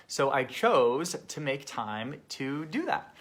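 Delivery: chose leaning out with a jump in pitch; emphasis on chose. Real, not acted. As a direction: punch the word "chose". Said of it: "I emphasize the word chose".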